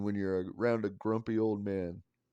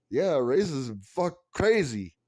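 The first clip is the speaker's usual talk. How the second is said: flat sarcastic agreement, dragged out; sarcastic friend-group reaction; mock shrug; 6 semitones higher, 9 dB louder, slower than usual. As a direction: shrug off the obvious with a drawn-out sneer. Friends mocking news reaction.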